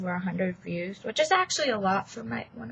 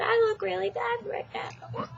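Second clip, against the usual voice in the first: hiccups; 12 semitones higher than usual. Real, not acted. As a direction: voice jumping up with a hiccup. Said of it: "there it goes again".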